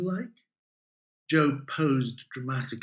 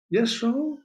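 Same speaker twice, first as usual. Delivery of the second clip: ordinary delivery, nothing marked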